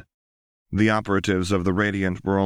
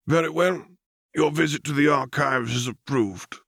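higher, formal voice of a presiding counselor; stern council elder; 7 semitones higher than usual. A narrator's reading. Council addresses operative Lux, formal and cool. Council grants her request.

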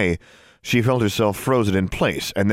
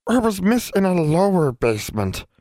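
high, insistent elf question; anxious high demand; 10 semitones higher than usual. A narrator's reading. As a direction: press for an answer, pitched high. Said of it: "demanded Em".

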